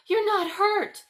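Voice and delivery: put-on high, loud relieved girl; girl crying out in happy relief; overjoyed cry. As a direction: burst out with relief and joy. Gerda relieved Kay is alive.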